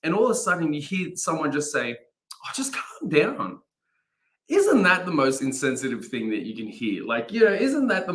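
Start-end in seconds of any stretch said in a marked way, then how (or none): 2.4-3.6 breathy, slow, dismissive calm down; dismissive hush. Retold or imitated. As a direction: brush off their feelings in a whisper. Quoting a dismissive remark.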